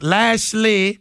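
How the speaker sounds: Lashley said slow in a Cajun accent; a light Cajun accent. Shown as a demonstration. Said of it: "that's my Cajun voice".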